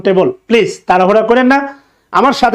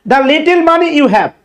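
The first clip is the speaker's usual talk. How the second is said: slow dictation; 4 semitones higher, much slower than usual. Shown as a demonstration. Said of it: "teacher dictates the example sentence".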